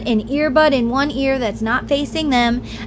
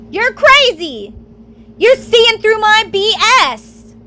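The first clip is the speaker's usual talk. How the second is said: higher, drawn-out taunting partner; mocking abuser; 8 semitones higher, 3 dB louder, slower than usual. Abusive partner taunting her, mocking and drawn out. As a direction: sneer it back at her like the gaslighter.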